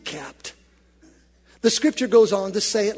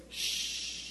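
soft hushing shh; congregation shushing; 12 dB quieter than usual. Real, not acted. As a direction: hush someone gently. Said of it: "use your finger up against your lips and say".

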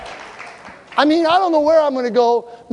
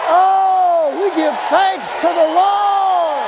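praise shout; 6 semitones higher, much slower than usual. Acted. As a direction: lift the church in thanks. Leading praise.

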